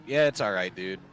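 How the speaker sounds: dry, sarcastic shrug. Real, not acted. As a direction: say it like you don't mean it. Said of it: "That's me being very sarcastic".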